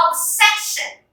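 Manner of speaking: obsession with the middle syllable stressed; stress before final syllable. Shown as a demonstration. Teacher reads for class, obsession stressed on its middle syllable. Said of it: "Let's read the following words".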